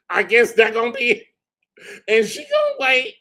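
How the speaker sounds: high, fast, cracking with laughter; mock her while cracking up; laughing mockery. Retelling the attorney's defeat, laughing.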